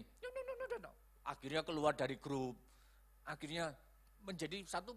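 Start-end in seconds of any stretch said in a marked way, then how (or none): 0.0-0.9 very high, soft wordless jabber; put-on high "no-no-no" babble; mock grumbling babble. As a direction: imitate offended chatter in a squeaky-high voice. Mimics offended person's grumbling.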